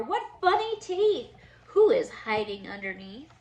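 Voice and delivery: lively storybook read-aloud for little ones; reading to children. Acted. Teacher reading a Halloween book to her class, lively storybook voice. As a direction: read it like story time for kids.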